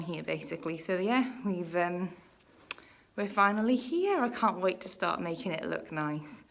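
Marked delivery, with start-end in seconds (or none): 3.2-6.4 breathless after climbing stairs; out of breath. Real, not acted. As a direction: talk while catching your breath. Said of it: "I'm so, so out of breath".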